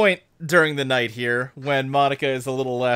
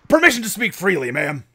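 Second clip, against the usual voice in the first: barking military voice, higher and quick; Rex; 6 semitones higher, 5 dB louder, faster than usual. Acted. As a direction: bark out a formal request to a superior. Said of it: "you hear Rex's barking voice".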